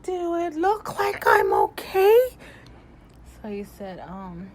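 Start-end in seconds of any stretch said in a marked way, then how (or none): 0.0-2.2 higher, louder incredulous snap; indignant retort. Retold or imitated. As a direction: throw the question back at him, outraged. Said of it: "I'm like".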